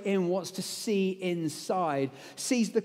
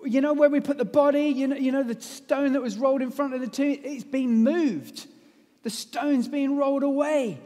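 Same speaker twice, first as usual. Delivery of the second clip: hurried, high urgent alarm; breathless news; 5 semitones higher, 5 dB louder than usual. Acted. Mary bursting in on the disciples, breathless and alarmed.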